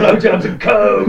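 loud, high hammed-up boast; excited shout. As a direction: whoop it like a party god. Mock superbeing boasting.

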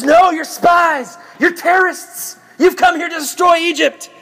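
high, hammed-up accusing shout. Joseph accuses his brothers of spying, mock outrage.

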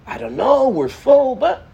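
a reluctant "we're full"; mock excuse of a busy rosh yeshiva; dismissive rosh yeshiva. Rosh yeshiva turning a boy away.

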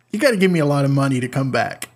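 N=Taika Waititi/public; attempted Taika accent. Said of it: "I can't do it".

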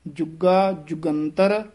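ਜੁਗਾ ਜੁਗੰਤਰ with a tight g, slow; slightly tightened. Shown as a demonstration. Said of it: "ਥੋੜਾ ਜਿਹਾ ਕਸ ਕੇ ਬੋਲਣਾ".

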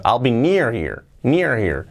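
"near here" joined up as "near-ear"; quick, H dropped. Shown as a demonstration. Teacher doing it quickly without the H, linked "near here". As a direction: link it in one go, no H on "here". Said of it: "sin la H, haciéndolo rápido".

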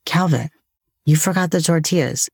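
gentle reminder to yourself after a sigh; compassionate self-talk. Retold or imitated. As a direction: restate the slip kindly, without the scolding. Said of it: "compassionate tone of voice towards myself".

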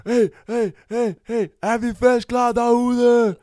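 high, loud MC crowd call; shouting. Retold or imitated. Guest with the microphone to the crowd, shouting. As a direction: pump up the crowd, stretching the last word. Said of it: "og så råber jeg bare".

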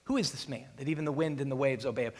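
rushed, hushed awe; a quick, quiet amazed question; disciples wondering. Retold or imitated. Disciples asking each other about Jesus, rushed and hushed. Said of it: "like the disciples did".

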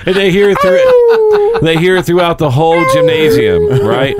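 squeaky high-pitched imitation, drawn out; high mock sound. Friends retelling gym prank, high squeaky imitation. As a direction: squeak it up high like the odd noise.

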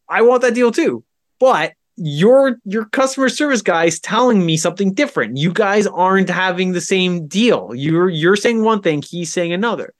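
imitating your own fed-up pushback; retold exasperated argument. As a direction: argue the point back at a salesman.

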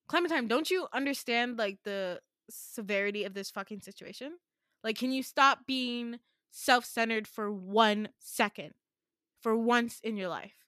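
loud, exasperated telling-off; snapping at her. Retold or imitated. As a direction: snap at her for being self-centred. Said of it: "this is Caden's snapping point".

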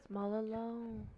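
hushed, breathy playful whisper; mock whisper. Friend jokes about being alone, whispering. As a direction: whisper it like a lonely secret.

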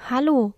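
mildly emphatic "Hallo", pitch falling; understated, insistent greeting on "Hallo". A narrator's reading. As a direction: say "Hallo" firmly without shouting. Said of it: "aber er sagte es nachdrücklich".

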